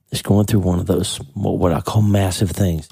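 voice cracking. Real, not acted. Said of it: "Sorry, my voice just cracked again".

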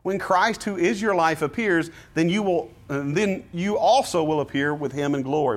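uplifting scripture read; encouraging reading of Colossians. Shown as a demonstration. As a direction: call them upward, encouraging. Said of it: "What kind of tone was that?".

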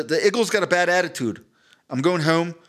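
Philly accent, "iggles" and "wooder"; lightly demonstrated Philadelphia accent. Shown as a demonstration. Philly fan off to watch football, Philly accent. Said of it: "so real Phil".

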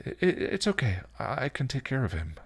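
high, tentative, stammered assurance; reassuring. Acted. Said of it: "she assured".

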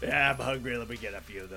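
Lucille Ball voice. Retold or imitated. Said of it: "Lucille Ball voice".

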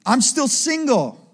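aggrieved questioning, stretched out; mild complaint. Acted. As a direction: plead the complaint at God. Voicing complaint of disappointed believers.

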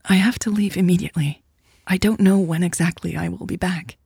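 lightly voiced Elle, reassuring. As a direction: reassure a partner while needing to leave.

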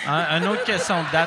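holding back a laugh; words fighting a giggle; stifled giggles. Real, not acted. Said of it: "il va gicler".

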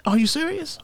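high, soft, stunned question; high disbelief. Retold or imitated. Friend can't believe the diving card, high and stunned. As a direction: squeak out his disbelief. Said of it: "He said".

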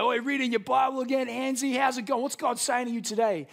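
mock the young Christian carpenter; mocking coworker. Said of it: "someone would come along and be like".

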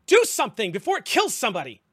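loud, high frantic yell; panicked shout. Acted. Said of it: "She goes".

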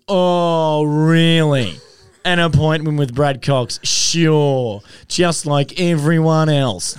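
high, loud, mocking disbelief, drawn out; mock the woman at the gate, high and scornful; sarcastic security woman. A sarcastic gate woman brushing them off, high and loud. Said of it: "this Sheila goes".

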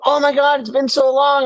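high-pitched mock gushing; imitated gushing greeting. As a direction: mimic a woman greeting an old flame. Imitating the woman's greeting at reunion.

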